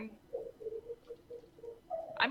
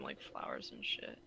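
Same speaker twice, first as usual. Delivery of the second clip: defeated; 12 dB quieter than usual. Real, not acted. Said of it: "You sound so defeated".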